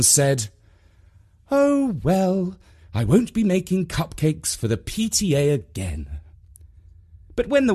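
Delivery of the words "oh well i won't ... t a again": lightly voiced, higher-pitched mum; resigned mum. A narrator's reading. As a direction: lift the voice for a put-out mum.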